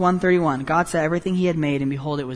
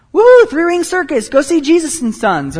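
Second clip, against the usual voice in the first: high, loud carnival hype; circus barker; 10 semitones higher, 9 dB louder than usual. Pretend. Preacher mocking wrong popularity, loud circus barker. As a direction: sell it like a sideshow barker.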